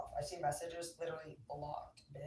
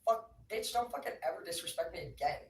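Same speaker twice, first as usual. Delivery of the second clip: angry outburst; 4 dB louder than usual. Acted. Telling off imagined critic.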